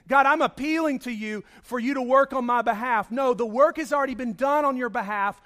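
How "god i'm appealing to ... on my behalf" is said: mock self-reliant plea. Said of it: "We cannot come to a holy God and say".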